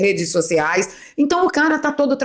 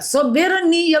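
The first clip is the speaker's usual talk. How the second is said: high-pitched quoted catchword; Peter Turguniev; 8 semitones higher, slower than usual. Retold or imitated. Host borrowing her friend's word for sovereignty, lightly imitated. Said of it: "como diz o meu amigo".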